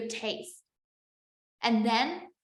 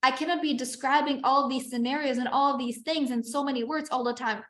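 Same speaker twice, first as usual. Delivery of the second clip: mock freaking out; 2 semitones higher than usual. Teacher voicing panicked students who fear describing scenarios, mock freak-out. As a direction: play up the overwhelmed student's panic. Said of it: "if you're freaking out and be like".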